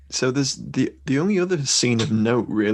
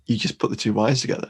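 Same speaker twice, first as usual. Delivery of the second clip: matter-of-fact; faster than usual. Retold or imitated. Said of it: "in the most matter, matter-of-fact way".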